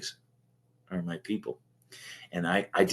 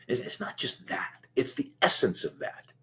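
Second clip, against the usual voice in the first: choked-up whisper; 3 semitones higher than usual. Real, not acted. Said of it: "I'm just getting a little choked up".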